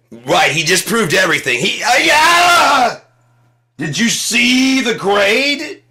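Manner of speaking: high, loud, laughing shout; awestruck experts. Acted. Experts marvelling at Trump's grade, high laughing shout. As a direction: shout in stunned amazement.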